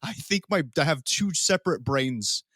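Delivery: sluggish hungover voice. Real, not acted. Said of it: "I'm so hungover right now".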